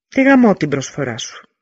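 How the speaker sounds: loud mocking yell with a wry grin; scornful shout at the offer; crooked-smile shout. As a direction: throw the insult down with a crooked smile. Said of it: "φώναξε ο Λεωνίδας με ένα στραβό χαμόγελο".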